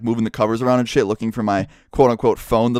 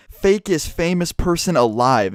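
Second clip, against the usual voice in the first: higher, drawn-out mock accusation; imitated taunt; 5 semitones higher, slower than usual. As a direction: imitate someone calling out an insult, slowly. Retold public insult from drunk girl.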